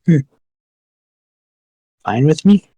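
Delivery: lightly voiced simple orc; easygoing orc voice. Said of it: "now she's, like, an orc voice".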